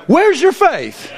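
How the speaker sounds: a disappointed teacher's question. Pretend. Jesus rebukes the disciples.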